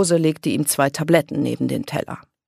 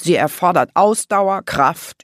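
louder, emphatic listing of virtues; gushing; 4 semitones higher, 6 dB louder than usual. A narrator's reading. Grandpa raving on about football, gushing. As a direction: extol the sport point by point. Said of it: "begann Opa Gustav zu schwärmen".

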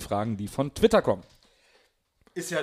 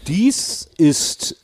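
pirate radio broadcast; 5 dB louder, slower than usual. Pretend. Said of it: "Piratensender Powerplay".

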